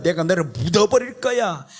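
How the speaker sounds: ordinary talk, nothing marked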